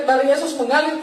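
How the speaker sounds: mild re-enacted calling out; retold cry. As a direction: call it out lightly, short of shouting. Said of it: "Begitu saya berteriak".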